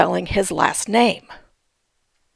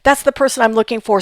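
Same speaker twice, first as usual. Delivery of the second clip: mock excitement; faster than usual. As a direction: act out a hasty, excited find. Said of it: "get all excited".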